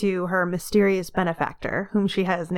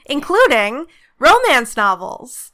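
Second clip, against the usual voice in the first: tinny echoey recording; metallic voice filter; 2 semitones higher than usual. Real, not acted. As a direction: sounds like a tinny echoey line. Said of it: "that weird echoey tinny sound".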